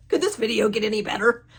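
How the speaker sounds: laughing with hiccups. Real, not acted. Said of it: "I've got the hiccups now".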